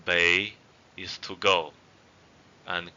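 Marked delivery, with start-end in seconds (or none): 0.1-0.5 "bei" with a gentle upward glide; rising tone. Shown as a demonstration. Teacher repeating the word for go, rising tone on "bei". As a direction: let "bei" climb slightly. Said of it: "raising tone".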